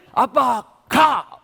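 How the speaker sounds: put-on high, loud toddler yelling go away; the son ordering dad out of the house; angry child. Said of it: "그리고 하는 말이".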